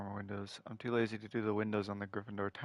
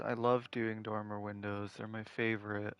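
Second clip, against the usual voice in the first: sarcastic. Real, not acted. Builder faking fondness for dormer windows, sarcastic. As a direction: feign love for a tedious chore. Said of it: "sense the sarcasm in my voice".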